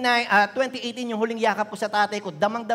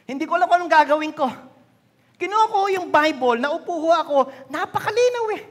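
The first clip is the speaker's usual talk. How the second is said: fervent preaching; 7 semitones higher, 5 dB louder than usual. Real, not acted. Preaching climax, fervent testimony.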